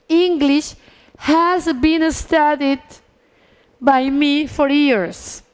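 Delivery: very slow, in separated chunks; drawn-out dictation with long pauses; deliberate example reading. Shown as a demonstration. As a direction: build the sentence piece by piece for learners. Teacher builds English passive sentence.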